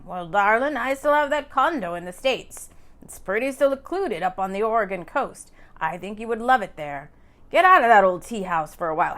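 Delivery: persuading man. A narrator's reading. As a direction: coax her to leave town, a bit fast.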